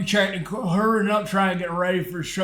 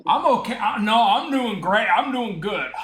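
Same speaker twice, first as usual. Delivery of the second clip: winded, breathy and tired; out of breath; 3 semitones higher than usual. Real, not acted. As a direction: push the words out winded. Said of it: "making him breathe heavy".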